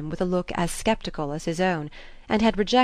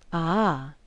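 ordinary delivery

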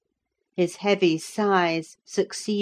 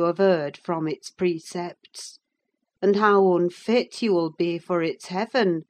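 a servant pressing her master to repent; anxious pious reproach; moralising Nelly; 4 dB louder than usual. Acted. Nelly lectures him on religion.

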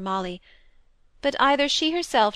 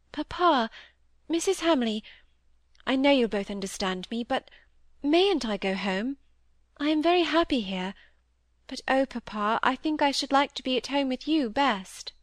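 lightly voiced girl, higher and earnest; a hint of a daughter begging to go home; young girl pleading; 4 semitones higher than usual. Molly asks Papa to take her home, lightly pleading.

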